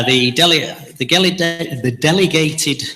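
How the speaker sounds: tripping over the word with loose dentures; slurred stumble, teeth slipping. Real, not acted. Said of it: "I'll put my teeth back in".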